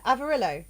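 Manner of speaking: Avarillo confirmed with a short i, falling; "Avarillo" with "rill", not "ree"; pronounced like Amarillo. Shown as a demonstration. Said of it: "like, Amarillo type thing?".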